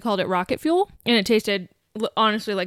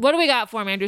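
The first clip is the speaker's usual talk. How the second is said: talking while chewing; words round a bite of food; mouth full; faster than usual. Real, not acted. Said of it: "Sorry, I'm, I'm eating".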